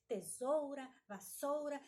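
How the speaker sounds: "Tesoura, vassoura" with the u of "ou" sounded; emphatic, clear ou in "Tesoura, vassoura"; careful pronunciation. Shown as a demonstration. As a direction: pronounce full "ou" in "Tesoura, vassoura". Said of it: "falar as palavras da forma correta".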